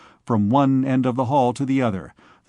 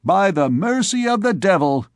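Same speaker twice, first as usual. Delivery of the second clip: higher, quick cheeky comeback; lightly voiced impish retort; 6 semitones higher than usual. A narrator's reading. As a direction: snap back like an impish boy. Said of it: "retorted Joannes Frollo".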